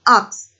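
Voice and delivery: "ux" said with k before s; mispronounced ask. Shown as a demonstration. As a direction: say "ux" for ask, swapping the final consonants. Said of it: "She mispronounced the word ask as".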